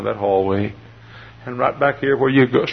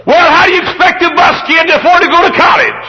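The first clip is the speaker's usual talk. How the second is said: bossy little princess; 8 dB louder than usual. Retold or imitated. Indignant girl scolding pastor.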